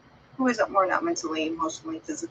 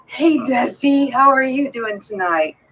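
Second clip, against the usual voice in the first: slow, higher, louder sing-song hello; mock sweet greeting; 5 semitones higher, 6 dB louder, slower than usual. Customer greeting Desi sweetly, slow sing-song hello. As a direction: play the customer being overly nice, drawn out.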